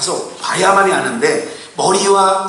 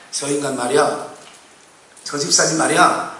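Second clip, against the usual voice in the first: low, softer gossip about someone; mock finger-pointing gossip, pitched down; imitated backbiting; 6 semitones lower, 4 dB quieter than usual. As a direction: talk behind their back in a lowered voice. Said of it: "손가락질하고 나에게 막, 없는 말 꾸며내고".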